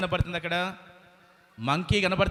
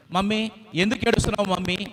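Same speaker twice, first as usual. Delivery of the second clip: little chick voice; 5 semitones higher than usual. Acted. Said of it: "ఆ చిన్న పక్షి అంటుంది".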